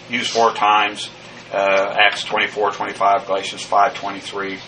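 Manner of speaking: ordinary talk, nothing marked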